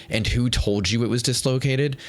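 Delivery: lightly mocking the doctor's tone; condescending doctor. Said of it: "Like, literally like that".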